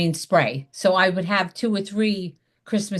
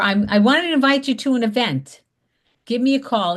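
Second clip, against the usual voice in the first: excited invite; 4 semitones higher than usual. Shown as a demonstration. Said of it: "they wanna hear that excitement in your voice".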